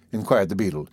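usual speaking voice

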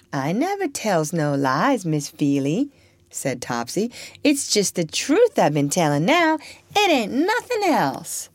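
a hint of a sly girl, innocent surprise; lightly voiced girl. Topsy's voice.

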